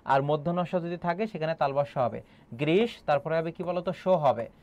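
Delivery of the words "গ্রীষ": গ্রীষ sounded out for the class; demonstrated pronunciation of গ্রীষ. Shown as a demonstration. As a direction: show how গ্রীষ is pronounced. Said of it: "গ্রীষ্মের উচ্চারণটা কি হবে". (গ্রীষ শব্দের উচ্চারণ দেখানো)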